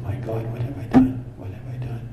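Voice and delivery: breathy, stricken whisper of regret; a hint of a broken man; anguished hush. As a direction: let the guilt choke the words. Man realizes his mistake.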